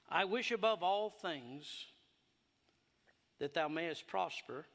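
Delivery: slow, weighty scripture reading; slow, measured verse reading; slow emphatic reading. Shown as a demonstration. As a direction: lay out each word slowly. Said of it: "so let's read it".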